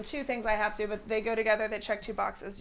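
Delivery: breathless, winded after the dance; words pushed out between breaths. Real, not acted. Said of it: "I'm very out of breath still".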